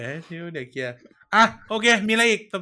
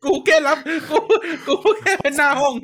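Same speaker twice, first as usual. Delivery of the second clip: high, laughing protest of innocence; 8 semitones higher, 3 dB louder than usual. Real, not acted. Host jokingly shifts blame onto co-host, laughing high. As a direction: laugh it off while pointing the finger.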